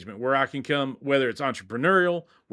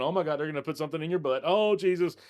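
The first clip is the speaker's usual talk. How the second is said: mock panicked dog; faster than usual. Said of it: "driving in the car going".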